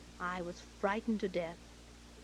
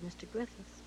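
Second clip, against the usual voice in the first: small, softer, timid address; meek; 5 dB quieter than usual. Retold or imitated. Actress interrupting a rehearsing director, meekly. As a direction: say the name meekly, quietly. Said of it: "I very meekly said".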